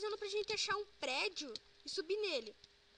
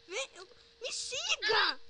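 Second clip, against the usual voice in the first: slow drawn-out; 2 semitones higher, 5 dB louder, much slower than usual. Acted. Leading friend in game.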